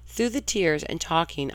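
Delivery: ordinary talk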